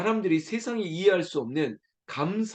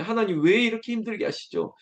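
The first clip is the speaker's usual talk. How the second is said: complaining prayer; 2 semitones higher than usual. Retold or imitated. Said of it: "막 이렇게 말하는 그런 순간순간이".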